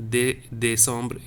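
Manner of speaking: first syllable of "décembre" alone, then the whole word; é as A sound. Shown as a demonstration. Teacher models the A sound in "dé-, décembre", é isolated first. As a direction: say "dé-, décembre" with é as a clear "ay". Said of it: "A sound".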